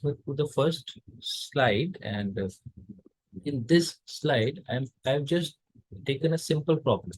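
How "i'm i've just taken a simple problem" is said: normal talking voice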